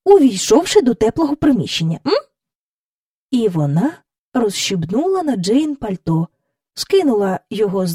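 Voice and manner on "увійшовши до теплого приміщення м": a stern governess's reproach; невдоволена няня бурчить; Mary Poppins scolding. Acted.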